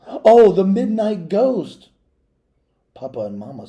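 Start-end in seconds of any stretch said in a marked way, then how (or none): 0.1-1.9 higher, louder, slow cry of recognition; cried out. Acted. Girl crying out to her father at the door, loud cry. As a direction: cry out to Papa, half scared half teasing. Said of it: "So I cried out to Papa".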